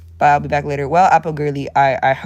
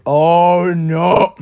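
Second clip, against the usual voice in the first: louder, hammed-up oh no; mock dread; 3 semitones higher, 8 dB louder than usual. Remembering the emoji thing, hammed-up dread. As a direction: ham up the dread.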